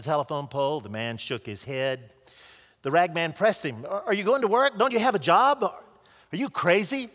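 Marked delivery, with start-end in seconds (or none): 3.9-7.1 incredulous cry. A narrator's reading. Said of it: "cried the man".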